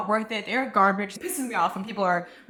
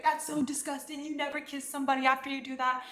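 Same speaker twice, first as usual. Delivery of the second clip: hushed, higher-pitched mock disgust; bratty fit; 4 semitones higher, 8 dB quieter than usual. Man scolding friend for kissing him, mock bratty fit. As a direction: imitate a petty tantrum under your breath. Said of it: "he threw such a bitch fit".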